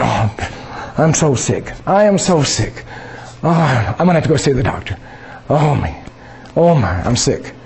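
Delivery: hammed-up self-pity, whining about being sick; a mild mock whine, the wrong way to talk; mock moaning. Shown as a demonstration. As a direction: moan like a sorry patient. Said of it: "That's not calling things that are not".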